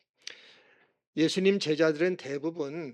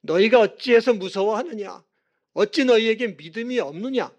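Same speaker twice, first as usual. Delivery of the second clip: raised voice, scolding questions; stern rebuke; 3 semitones higher, 6 dB louder than usual. Retold or imitated. Jesus to his frightened disciples, stern rebuke. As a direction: rebuke them, pressing each question. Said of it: "제자들을 또 꾸짖으셨습니다".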